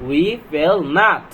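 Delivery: very slow, word by word; slow word-by-word read. Shown as a demonstration. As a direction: read it out slowly for beginners. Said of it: "slow sentence reading demo".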